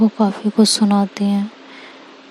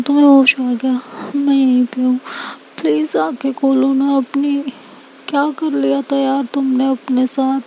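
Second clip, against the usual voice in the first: relief melting into tenderness; tender Anika; 4 semitones higher than usual. Acted.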